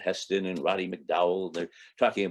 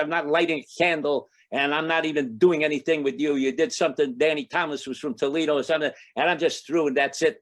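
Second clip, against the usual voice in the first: upset; 4 semitones higher, 3 dB louder than usual. Retold or imitated. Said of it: "And I'm really upset".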